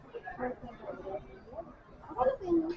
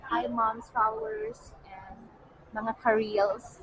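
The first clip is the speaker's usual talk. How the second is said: modulated voice; slower than usual. Real, not acted. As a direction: greet them slowly in a modulated voice. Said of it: "Mas modulate". (modulado at mabagal na pagbati)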